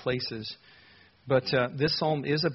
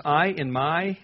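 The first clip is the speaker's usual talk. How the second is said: "I" and "my" set apart and stressed; 2 semitones higher, 4 dB louder, slower than usual. Shown as a demonstration. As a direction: lean on "I" and "my" as words to circle. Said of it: "if you like to circle things".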